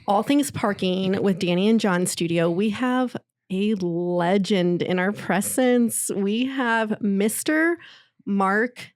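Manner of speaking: slow, drawn-out guest introduction; show announcer. Acted. Host presenting a legend in the studio, announcer style. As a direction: announce the big guest, stretching each phrase out slowly.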